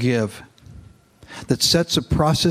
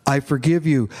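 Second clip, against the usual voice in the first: reads the novel aloud to his congregation, steadily; a pastor reading a novel passage to the church, in a narrating voice; story narration. A narrator's reading.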